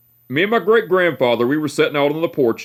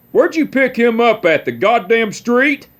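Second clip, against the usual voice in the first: higher, slow mock-gruff jab; imitating great-grandpa; 8 semitones higher than usual. Great-grandpa asking step-grandma where she found the boy, slow mock-gruff higher voice. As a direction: drawl out a cranky old man's insult.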